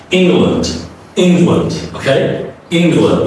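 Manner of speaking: "England" with the second vowel reduced; "England" demo. Shown as a demonstration. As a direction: repeat "England" with a schwa. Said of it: "you can't say England".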